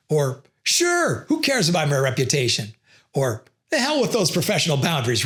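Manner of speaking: mild sarcastic refusal lines; lightly mocking, tongue in cheek; ironic. Shown as a demonstration. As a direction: say it so they hear you mean the opposite. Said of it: "You could be ironic".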